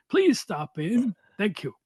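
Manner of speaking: put-on slow gravelly old pitchman; lightly voiced gritty ad man. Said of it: "gritty, gravelly, non-announcer's voice".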